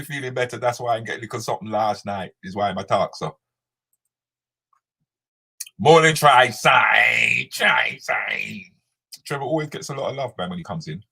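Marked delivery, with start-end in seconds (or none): 5.8-8.6 calling out a greeting. Real, not acted. Greeting a viewer who joined.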